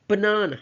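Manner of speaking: baNAna, weak first and last vowels; "banana" with only the middle syllable strong; schwa syllables. Shown as a demonstration. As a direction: reduce both outer vowels of "banana" to "uh". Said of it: "first and last syllables are schwa".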